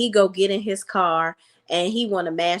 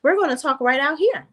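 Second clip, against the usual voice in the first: higher, firm no-nonsense refusal; mocking the mother's firm no; 5 semitones higher than usual. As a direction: shut him down at the door, a bit higher. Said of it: "She was like".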